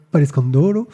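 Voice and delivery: mock Italian accent on Palescandolo, with rising Italian lilt; playful Italian accent on a colourist's name. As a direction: roll Palescandolo like an Italian, lightly hammed. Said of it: "mon accent italien est mieux".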